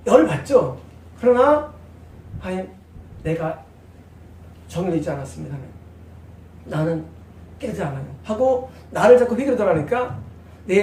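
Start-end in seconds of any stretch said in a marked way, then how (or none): 2.4-8.1 softer, lower confession; retold prayer of repentance, hushed. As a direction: pray it low and humble.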